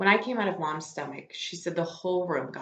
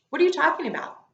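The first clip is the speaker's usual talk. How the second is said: much higher, louder alarmed question; boy overhearing his mom, demanding an answer; startled outburst; 11 semitones higher, 7 dB louder, faster than usual. Acted. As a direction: blurt it out in shock.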